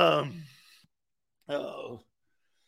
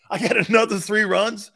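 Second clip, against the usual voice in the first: pushed up louder, stoner hyped; louder stoner call; 6 dB louder than usual. Shown as a demonstration. Stoked stoner athlete hyping his next three runs, louder. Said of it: "repeats louder".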